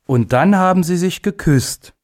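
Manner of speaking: high, excited finish to a report; breathless exclamation. A narrator's reading. Little day ending his report to the gathered days, breathlessly excited. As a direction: blurt out the big highlight, pitched high. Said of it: "rief er am Schluss seines Berichts ganz atemlos".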